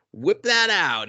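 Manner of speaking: put-on pushy come-on in a girlish lilt; lightly voiced bold woman.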